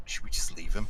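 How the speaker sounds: hushed whisper. A player's character speaks to the other two ladies, whispering in character. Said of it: "whisper over to the other two ladies in character".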